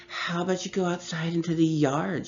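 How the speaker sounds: mocking child with a loud sigh; sighing mock echo. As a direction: parrot her sister back, sighing. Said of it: "she sighed loudly".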